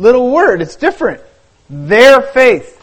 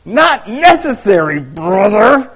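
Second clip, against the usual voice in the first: sarcastic; slower than usual. Acted. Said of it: "Jim was sarcastic".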